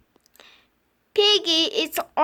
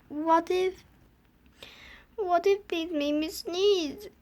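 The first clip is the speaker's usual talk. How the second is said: trailing worry; 6 dB quieter than usual. Acted. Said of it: "what if repeated".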